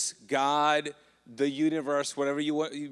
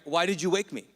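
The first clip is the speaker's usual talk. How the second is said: ticked off; 3 semitones higher than usual. Retold or imitated. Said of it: "I don't know if Jesus is ticked".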